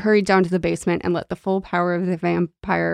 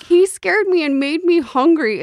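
put-on high, louder child voice; whiny little boy, pitched way up; 11 semitones higher, 4 dB louder than usual. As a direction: play a scared twelve-year-old boy. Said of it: "a little twelve-year-old boy being like".

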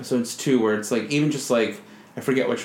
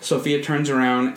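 ordinary talk, nothing marked

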